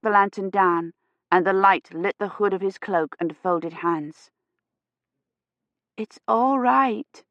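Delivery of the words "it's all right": feverish reassurance. A narrator's reading. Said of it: "she said".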